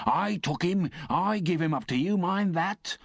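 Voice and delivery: insistent rough convict. Acted. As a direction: hammer home that he caught him.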